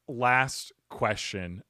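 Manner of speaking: slow, measured radio-host delivery; a touch of Christopher Walken-style pacing; host cadence. Real, not acted. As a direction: lean into the announcer cadence. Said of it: "I don't know why I'm speaking in that cadence".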